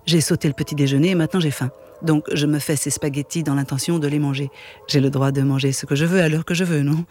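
steady reading of a novel aloud; calm literary read-aloud voice; story narration. A narrator's reading.

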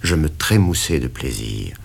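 ordinary delivery, nothing marked

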